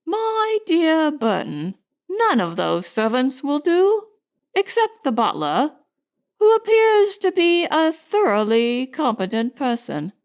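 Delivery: emphatic grand-dame verdict; utmost conviction. A narrator's reading. Elder lady advising Crane once alone, utmost conviction. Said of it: "with the utmost conviction".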